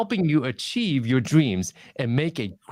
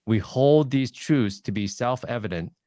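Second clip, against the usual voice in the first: just read it out, no music in it; reading the speech without passion; flat reading; 2 semitones lower than usual. Shown as a demonstration. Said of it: "Now, contrast that with this".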